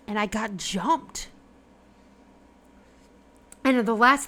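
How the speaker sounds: subdued recollection in character; calmer voice. Acted. Recovered horseman explains how he was captured, calmly. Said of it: "his voice is calmer".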